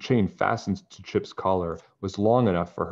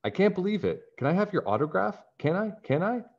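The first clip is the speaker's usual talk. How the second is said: high, eager fan voice; fake gushing fan; 12 semitones higher than usual. Nancy playing a gushing fan to trick Bradley, high and eager. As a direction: pretend to be starstruck.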